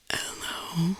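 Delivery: strained breathy whisper on the last breath; forced whisper. Acted. Unseen creature in the woods calling back, forced whisper. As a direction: push the word out like deflating lungs. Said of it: "It was whispered and forced".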